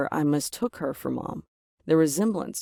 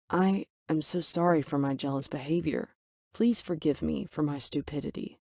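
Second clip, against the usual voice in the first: softer, contrite apology; deeply apologetic; 4 dB quieter than usual. Acted. Daughter apologizing to mom and Ethan, softer and contrite. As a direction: say sorry quietly and humbly. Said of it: "in a deeply apologetic voice".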